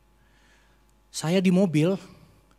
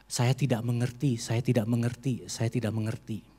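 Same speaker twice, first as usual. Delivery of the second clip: fading lament; 4 semitones lower, 5 dB quieter than usual. Retold or imitated. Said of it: "Saya hanya berkata kepada Tuhan".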